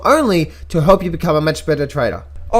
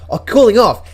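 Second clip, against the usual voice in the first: mocking echo; 6 semitones higher, 6 dB louder than usual. Mocking the friend's phrase.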